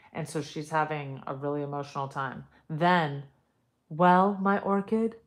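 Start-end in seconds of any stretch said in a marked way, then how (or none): 3.9-5.1 put-on Italian accent. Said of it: "we're Italian".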